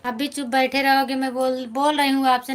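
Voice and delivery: loud needling to get a reply; loud playful needling; teasing provocation. Real, not acted. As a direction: poke at him until he answers. Needling a silent viewer to respond.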